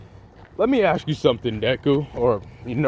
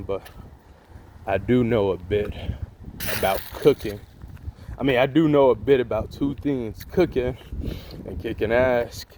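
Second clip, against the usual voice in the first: cool mentor Sanji; 4 semitones lower than usual. Retold or imitated. Sanji offers to teach Deku, lower and relaxed. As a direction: play it cool and confident.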